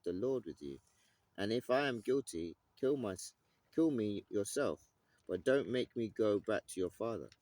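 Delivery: lightly dramatised scripture reading. Acted. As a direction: read the passage out with weight. Reads the passage aloud.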